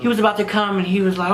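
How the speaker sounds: normal talking voice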